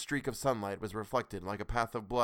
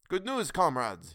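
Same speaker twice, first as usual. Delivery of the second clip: slow, loud relieved cry; raised, slow glad cry; cried out; 5 semitones higher, 5 dB louder, slower than usual. A narrator's reading. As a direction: call the good news out. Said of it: "he cried".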